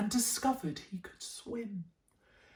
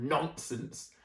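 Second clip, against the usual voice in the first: scolding; 4 semitones lower, 5 dB quieter than usual. Acted. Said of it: "The mother scolded".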